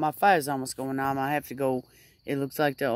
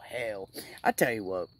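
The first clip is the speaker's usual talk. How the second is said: normal talking voice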